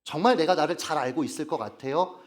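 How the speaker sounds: doubting question with a rising end; challenging question. Real, not acted. Preacher asks listeners if they truly know themselves, challenging. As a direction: question it at an everyday pace, lifting the end. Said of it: "근데 정말 그렇습니까?".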